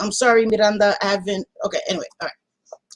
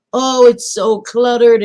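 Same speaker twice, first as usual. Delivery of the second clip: mocking critics; 2 semitones higher, 6 dB louder, slower than usual. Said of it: "Some people are like".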